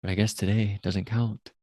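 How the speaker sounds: lightly put-on English accent. Shown as a demonstration. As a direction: try a soft British English accent. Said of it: "That was my English accent".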